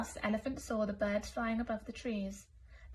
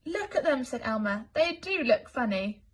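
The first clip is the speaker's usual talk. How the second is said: amused; 2 semitones higher, 5 dB louder than usual. Acted. Elmer laughing at elephants.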